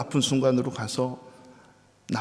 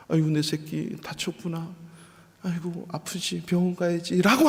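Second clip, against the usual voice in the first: tender mother; 4 semitones higher than usual. Pretend. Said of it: "하면 얼마나 좋았겠어요".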